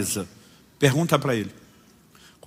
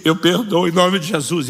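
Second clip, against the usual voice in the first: tearful surrender; 4 semitones higher, 5 dB louder than usual. Acted. Você tá chorando.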